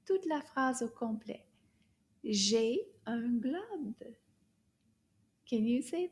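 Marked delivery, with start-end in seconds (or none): 2.2-4.2 slow, word-by-word French modelling; drawn-out words with gaps between; slow teacher model. Shown as a demonstration. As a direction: say it slowly for learners to repeat. Teacher models sentence for repeating.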